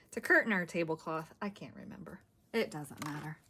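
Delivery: whispered aside to herself; breathy unvoiced murmur. Real, not acted. Muttering to herself while searching.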